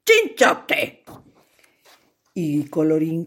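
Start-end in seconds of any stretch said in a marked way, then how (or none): 0.1-1.0 much higher, louder joyful shout; cheerful cheer. Acted. Crowd cheers the hero, joyful. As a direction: cheer his name.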